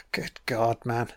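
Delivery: a stunned, hushed aside; awed whisper. Real, not acted. Watching the film, a stunned whisper to himself. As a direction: breathe it out in a whisper.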